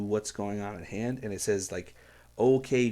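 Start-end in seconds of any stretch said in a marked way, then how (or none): 2.4-2.9 loud attention-grabbing okay; firm call to focus. Shown as a demonstration. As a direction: snap the room to attention. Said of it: "opening with "Okay" is a way to do that".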